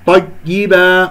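طيبة with a gap where the doubled ي should sound; sound disappears. Shown as a demonstration. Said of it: "اختفى عندي الصوت". (اختفاء صوت الياء في طيبة)

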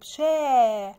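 loud, long held شا; fatha sound. Shown as a demonstration. Teacher introducing the first sound of tree, drawn-out شا. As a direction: stretch شا out slowly before the word. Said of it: "شا حرف الشين عليه فتحة".

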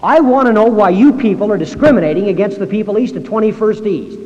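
a furious citizen yelling down the phone; angry shouting. Retold or imitated. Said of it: "would you calm down".

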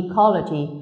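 ecology with CO, the second syllable, stressed; stress third from end. Shown as a demonstration. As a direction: lean on the co in ecology. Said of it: "Có đuôi logy".

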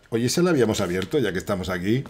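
ordinary talk, nothing marked

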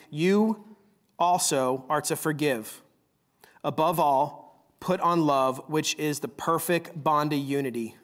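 measured, deliberate Bible reading from the pulpit; lightly heightened preacher's reading voice; scripture reading. Acted. Reads scripture passage aloud.

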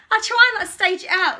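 high, loud laughing admission. Real, not acted. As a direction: burst out laughing while out of breath. Laughing at being caught breathless.

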